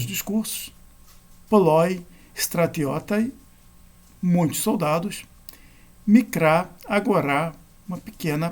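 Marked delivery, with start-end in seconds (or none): 1.5-3.3 "Poloi stratiotai" slowly, with LOI stressed in "Poloi"; grave-accent example. Shown as a demonstration. Teacher showing grave accent examples, "Poloi" stressed on LOI. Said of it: "só pode ocorrer na última sílaba". 6.1-7.5 "Mikra" stressed on KRA, "agorá" on RÁ; grave-accent example. Shown as a demonstration. Teacher showing grave accent examples, "Mikra" stressed on KRA. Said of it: "só pode ocorrer na última sílaba".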